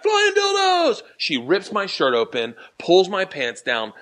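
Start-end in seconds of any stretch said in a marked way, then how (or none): 0.0-1.0 high, slow shouted chant; slow high yell. Retold or imitated. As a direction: shout it while handcuffed. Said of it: "I'm like".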